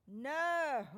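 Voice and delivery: a firm, loud no; emphatic. Acted. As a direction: refuse with force. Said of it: "Peter says emphatically".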